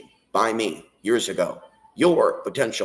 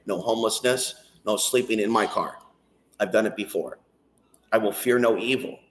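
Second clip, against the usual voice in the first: prayer. Acted. Prays aloud to God.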